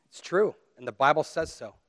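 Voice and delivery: ordinary delivery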